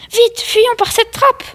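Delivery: high-pitched, stretched call to flee; urgent exclamation. Acted. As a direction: urge a companion to escape now. Acted urgent escape.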